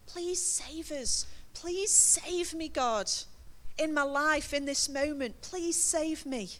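slow, pleading prayer, leaning on please; slow heartfelt plea. Shown as a demonstration. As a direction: beg God gently from the heart. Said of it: "just remember in your heart".

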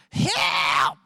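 shouted call for help, cousin in trouble; retold cry for help. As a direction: yell it like you're being beaten up. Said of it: "and he goes".

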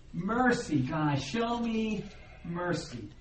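drawn-out, understated plea; begging. Acted. Sinners begging God for mercy, understated begging. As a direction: beg slowly, letting mercy fall away. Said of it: "they're just begging for".

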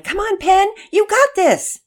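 high, loud cheering; teammates yelling. A narrator's reading. Teammates to struggling pitcher, high encouraging yell. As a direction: yell support from behind the pitcher. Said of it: "her teammates behind her yelling".

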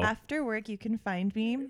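slow, grand mic-voice reading; mock announcer read. Host grabbing the mic to read his dating profile, mock announcer voice. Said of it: "When she grabs the mic, it's serious".

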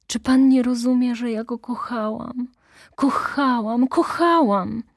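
high, loud pleading; desperate declaration; impassioned cry. Acted. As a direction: cry out the love. She cries out her love.

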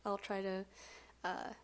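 congested, hoarse sick voice. Real, not acted. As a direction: talk through a cold. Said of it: "my sick person voice".

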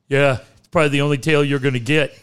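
fast, mocking coach jab; quick put-down from the radio coach; insulting coach. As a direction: rattle off the insult like a talk-show coach. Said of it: "Angry Coach insults caller".

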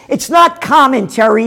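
firing back at the emailer, sharply angry; angry correction. Real, not acted. Host rebutting a viewer's email, angrily. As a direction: snap back hard at the word not.

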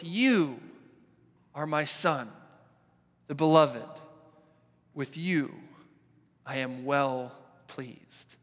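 slow, solemn voice from the heavens, words drawn out; lightly voiced booming heavenly voice; booming voice of God. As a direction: boom it out slowly as God speaking. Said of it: "this booming voice".

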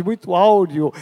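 ordinary talk, nothing marked

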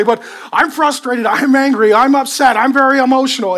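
hammed-up complaint of an upset person; mock emotional excuse. Preacher mocking people who blame their emotions, whiny and loud. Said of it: "some people just say".

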